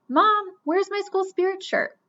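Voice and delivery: calling out. Acted. Brother calls out to mom.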